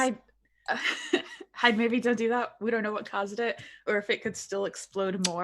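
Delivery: loud, anxious caution; urgent warning. Acted. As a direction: warn them urgently. Warning teammate, louder.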